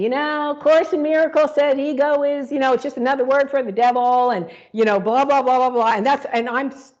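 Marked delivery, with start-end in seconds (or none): 0.0-5.9 light, lively mock preacher cadence, tossing off blah blah; breezy imitation of a spiritual teacher's patter; a touch of a breezy teacher voice rattling on; imitating Jacob Glass. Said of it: "talking like Jacob Glass".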